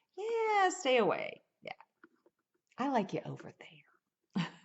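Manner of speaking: playful teasing sarcasm, high and sing-song. Showing how to tell someone to keep their distance, tongue in cheek. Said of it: "you can say it tongue in cheek".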